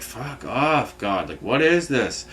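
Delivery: soft, slow, fed-up curse; quiet angry mutter skyward; muttered at God. Retold or imitated. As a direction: grumble it half under your breath. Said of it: "And I'm like".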